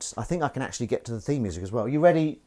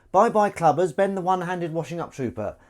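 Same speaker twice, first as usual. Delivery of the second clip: cat voice; 4 semitones higher, 3 dB louder than usual. Acted. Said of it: "I'm speaking in the cat voice".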